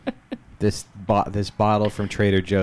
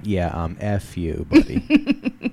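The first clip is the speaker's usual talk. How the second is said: mock dismissive clerk; 3 dB louder, much slower than usual. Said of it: "and they go".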